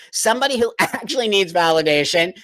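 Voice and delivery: talking through laughter, can't help it; amused, laughing mid-sentence; real laughing. Real, not acted. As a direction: let helpless laughs break into the sentence. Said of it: "I'm laughing".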